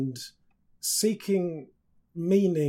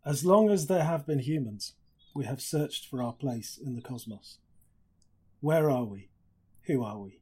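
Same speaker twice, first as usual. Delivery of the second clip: reading aloud. Shown as a demonstration. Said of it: "just wanted to read to you".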